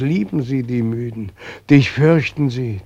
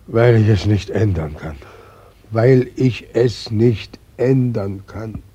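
wailing; 4 dB louder than usual. Acted. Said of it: "loslegen wie eine verlassene Braut".

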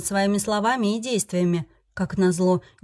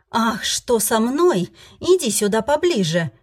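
menacing invitation; 3 semitones higher, 4 dB louder, slower than usual. Acted. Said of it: "предложила".

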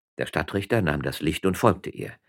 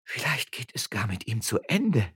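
higher-pitched worried lament; wailing; 6 semitones higher than usual. A narrator's reading. Woman frets over the collapsed magistrate, wailing lament. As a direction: lament as if he may die. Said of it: "jammerte Frau Frasquita".

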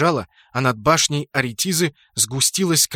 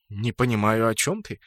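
sweet feigned innocence; 4 semitones lower than usual. Acted. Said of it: "Я мило улыбнулся".

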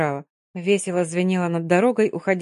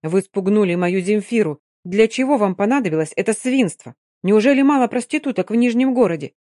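angry; 2 semitones higher, 4 dB louder than usual. Acted. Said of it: "сердито сказал он".

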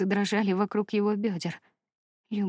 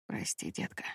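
breathy whispered apology; hushed whisper, barely voiced; 13 semitones lower, 11 dB quieter than usual. A narrator's reading. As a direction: whisper it into her forehead. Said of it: "прошептал он ей в лоб".

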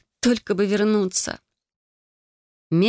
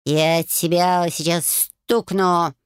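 bark; much slower than usual. A narrator's reading. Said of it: "рявкнул Баюн".

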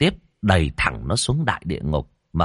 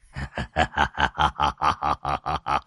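low, slow sinister chuckle; sly evil laugh; 6 semitones lower, 5 dB quieter, much slower than usual. A narrator's reading. Môn Phọt creeps on the ghost, low sly menace. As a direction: relish the victim's fear. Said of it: "cười gian".

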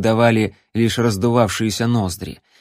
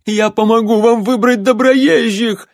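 much higher, louder squealing offer; hysterical falsetto; 12 semitones higher, 6 dB louder than usual. A narrator's reading. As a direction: shriek it in a panicked falsetto. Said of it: "истеричным фальцетом выдал охотник".

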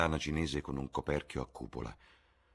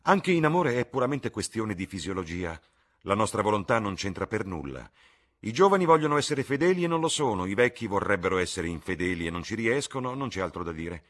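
much higher, louder, delighted invitation; exuberant Lord Henry; 5 semitones higher, 9 dB louder than usual. Acted. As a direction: sweep them along gleefully. Lord Henry lecturing wittily. (Lord Henry esuberante, molto più alto e forte)

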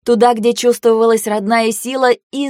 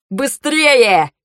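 high, drawn call to hurry; pressing, alarmed command; urgent shout; 4 semitones higher than usual. A narrator's reading. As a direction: rush everyone along with a raised cry. Hurrying everyone to escape.

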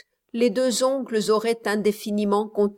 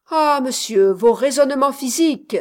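scornful sigh of protest; exasperated protest; 3 semitones higher, 6 dB louder than usual. Acted. Miss Campbell exasperated with Ursichlos, louder protest.

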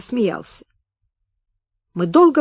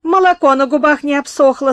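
louder, spiteful sneer; 6 semitones higher, 6 dB louder than usual. A narrator's reading. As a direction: spit the words out in malice. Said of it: "сказал он со злобой".

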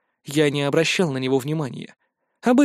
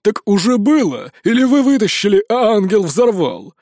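sly mocking question; 4 semitones higher, 5 dB louder than usual. A narrator's reading. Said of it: "растянувшись в ехидные улыбки".

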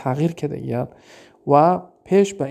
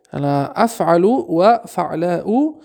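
slow, drawn-out Arabic rule; slow reading; much slower than usual. Shown as a demonstration. Teacher reading a grammar rule to the class, slowly. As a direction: read the rule slowly and clearly. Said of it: "teacher reads the rule".

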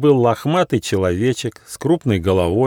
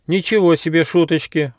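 high, raised outraged exclamation; indignant; 9 semitones higher, 3 dB louder than usual. A narrator's reading. Fli indignant at the prank cries. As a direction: protest in mock outrage. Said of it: "возмутился Фли".

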